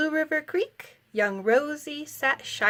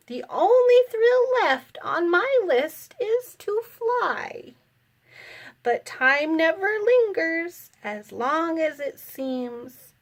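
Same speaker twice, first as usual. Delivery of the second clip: put-on old aunt; 4 semitones higher than usual. Great-aunt voiced, wistful.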